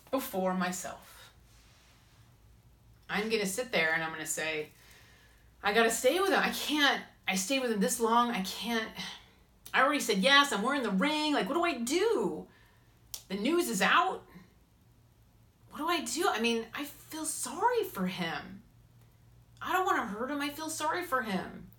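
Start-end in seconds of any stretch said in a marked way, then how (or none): 5.6-16.3 higher, anxious spiralling pleas; panicked self-talk. Retold or imitated. Woman voicing her own panic about staying engaged, high and anxious. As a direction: voice climbing in panic, I'm trapped.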